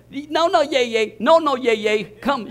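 mildly insistent mimicked toddler; imitated insistent child. Granddaughter refusing grandpa's excuse to study, imitated insistence. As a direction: brush off the refusal like a little granddaughter. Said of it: "She meant it. She was for real".

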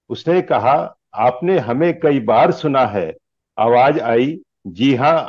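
measured lines with lilting stage delivery; declaimed Hindi humorous verse; comic poem recitation. Acted. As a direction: recite it like verse at a poets' gathering.

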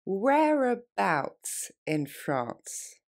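very slow, stretched question. Shown as a demonstration. Teacher repeating the question very slowly. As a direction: drag out every syllable. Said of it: "On reprend".

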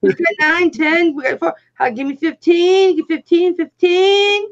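rapid auction chant; auctioneer voice. Pretend. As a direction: rattle off bids like an auctioneer. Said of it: "like, the auctioneer voice".

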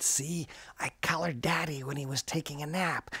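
hushed secret whisper; conspiratorial whisper. Acted. Girl whispering to her mum about coloring Daddy.

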